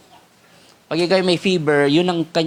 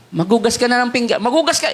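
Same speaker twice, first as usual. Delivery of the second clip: mock yelling parent; 3 semitones higher than usual. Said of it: "Bakit kaya kailangan sumigaw?".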